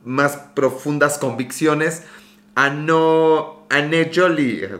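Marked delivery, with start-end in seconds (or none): 3.7-4.7 Anne Jolie said slowly, each syllable drawn out; careful name pronunciation. Shown as a demonstration. Streamer carefully sounding out a follower's name. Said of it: "Anne Jolie sería la pronunciación".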